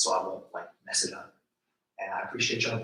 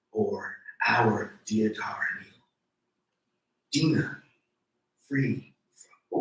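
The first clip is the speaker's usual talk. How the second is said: slow, measured poetry reading; poem reading. Acted. Poet reading her poem to the audience, measured. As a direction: read each line as a spoken poem.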